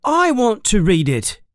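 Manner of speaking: high, angry demand; furious. A narrator's reading. Harry furiously demanding his letter, high voice. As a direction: insist hotly. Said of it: "Harry says furiously".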